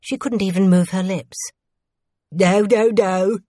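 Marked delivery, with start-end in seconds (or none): 2.3-3.4 louder, quick repeated protest; urgent refusal. A narrator's reading. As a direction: refuse outright, as if backing away. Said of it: "voicing her thoughts".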